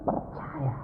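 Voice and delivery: imitated high, drawn-out cry; giddy praise. Woman praising God after her tears, imitated giddy cry. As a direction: mimic slow, high-pitched elation, easing off. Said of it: "lalu bel-, ketawa-ketawa".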